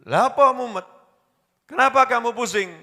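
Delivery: put-on pry eagerly like a gossiping girlfriend; eager friend's question. Woman at arisan eagerly asking her friend why she's stressed, excited.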